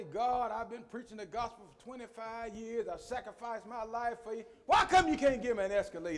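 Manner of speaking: demanding prayer. Shown as a demonstration. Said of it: "That's talking at God".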